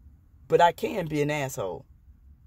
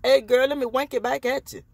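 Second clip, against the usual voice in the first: higher, louder mock come-on voice; mock flirty stranger; 5 semitones higher, 3 dB louder than usual. Mocking a stranger who flirts back at her tic. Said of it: "and be like".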